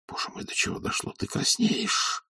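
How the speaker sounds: hushed, breathless horror; a man whispering in dismay at her blush; horrified whisper. A narrator's reading. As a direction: whisper it aghast, slowing on the last words. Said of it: "с ужасом сказал он".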